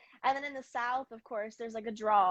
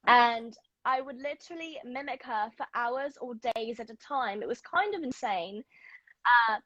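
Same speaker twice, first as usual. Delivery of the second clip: put-on London accent; imitation British English accent. Shown as a demonstration. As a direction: speak like a Londoner with a touch of Hermione. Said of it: "I'm really good at doing one".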